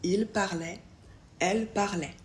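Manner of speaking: parlaient ending only on the open è sound; silent ENT ending. Shown as a demonstration. Teacher models plural il and elle, ENT left silent. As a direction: drop ENT, finish on è. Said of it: "on ne prononce que le son est".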